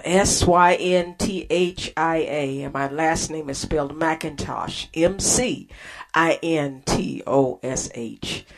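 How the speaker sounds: letters S Y N T H I A and M C I N T O S H named one by one; spelling it out. Shown as a demonstration. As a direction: spell the name letter by letter, with small pauses. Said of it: "my name's spelled".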